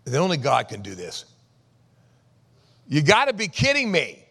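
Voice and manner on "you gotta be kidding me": loud, high, disbelieving; incredulous scolding. Acted. Jesus to disciples afraid of the storm, loud incredulous scolding.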